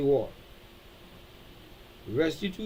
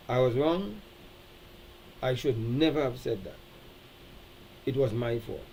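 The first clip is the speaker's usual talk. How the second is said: soft, lower, owning the fault; humble admission; 4 semitones lower, 5 dB quieter than usual. Shown as a demonstration. Pastor modeling accepting responsibility, soft and low. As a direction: quietly take the blame. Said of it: "Those are the things that they like to hear".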